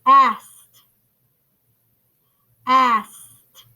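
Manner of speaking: "Asked" said firmly with a clear final T; echo-word demonstration. Shown as a demonstration. Teacher modelling final sound for class, "Asked" ending in T. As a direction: say "Asked" loud, ending on a crisp T. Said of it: "listen for the sound in the final position".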